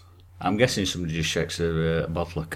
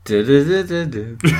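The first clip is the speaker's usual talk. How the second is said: humming the jingle; 6 semitones higher, 8 dB louder than usual. Pretend. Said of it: "Do the, do the sound".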